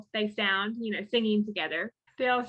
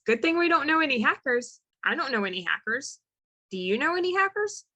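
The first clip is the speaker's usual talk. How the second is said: acted nervous cover-up, mostly pitched higher; concealed panic; 4 semitones higher than usual. Friends denying they know any hackers, concealed panic. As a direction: play innocent while hiding panic, pitch jumping up. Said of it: "desperately trying not to show it".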